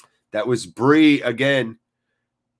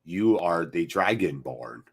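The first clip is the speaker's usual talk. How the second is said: deep, slow, softer jarl voice; Ulfric impression; 7 semitones lower, 4 dB quieter than usual. Streamer playing Ulfric to a Skyrim-fan chatter, deep and slow. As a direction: intone it like a solemn Nord king. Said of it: "That's my Ulfric".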